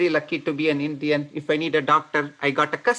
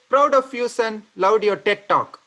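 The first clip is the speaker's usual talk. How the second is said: quoted dad; 4 semitones higher, 3 dB louder than usual. Retold or imitated. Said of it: "He replied".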